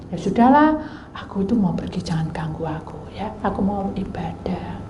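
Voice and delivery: soft, resigned plea; bujukan pelan. Retold or imitated. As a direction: hush the birds wearily. Gently pleading with noisy birds. (membujuk pelan, setengah berbisik)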